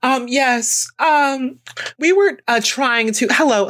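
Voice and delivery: polite customer-service put-on voice; sweet, careful infomercial voice; white woman infomercial voice. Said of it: "I put on my cute little white woman infomercial, infomercial voice".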